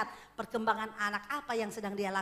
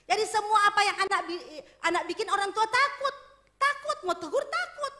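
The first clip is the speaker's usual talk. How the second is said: laughing through words; 9 semitones higher, 8 dB louder than usual. Real, not acted. Laughing while describing fearful parents.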